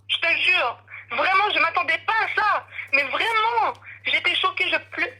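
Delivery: fighting back sobs, pitch climbing; real distress, crying while telling; tearful. Real, not acted. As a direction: voice breaking high with tears. Caller breaks down recounting assault.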